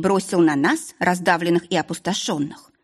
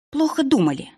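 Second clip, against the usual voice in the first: higher, spat-out sneer; venomous retort; 8 semitones higher than usual. A narrator's reading. Heroine spitting a jab at the duke, venomous. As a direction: spit it back at him. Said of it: "язвительно выплюнула я".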